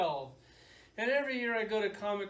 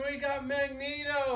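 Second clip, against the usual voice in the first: raised mock panel announcement; announcing presenters; 5 semitones higher, 3 dB louder than usual. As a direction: imitate a presenter making a reveal. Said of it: "And then they're like".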